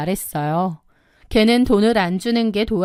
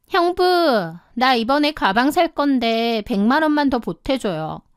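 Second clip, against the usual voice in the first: wheedling younger sister; 3 semitones higher than usual. Acted. Sister-in-law asking for handbag money, wheedling. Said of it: "남편 핸드폰 잠금을 풀고 카톡".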